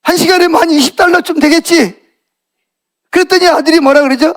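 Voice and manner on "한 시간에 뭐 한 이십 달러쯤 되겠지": higher-pitched, gruff dad's reply; brusque. Acted. Tired father answering his small son's question, brusque. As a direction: answer curtly, as an irritated father. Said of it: "아빠가 퉁명스럽게".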